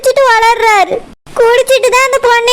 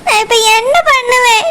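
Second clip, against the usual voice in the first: despairing sob. Acted. Wife alone, crying after husband leaves.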